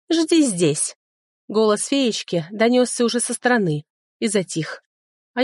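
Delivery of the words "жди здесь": fairy command. Acted.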